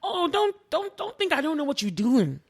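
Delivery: mock-warn like a mom who sees through you; queen scolding the UN delegates, light African mom voice; lightly voiced African mom. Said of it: "she was like the African mom".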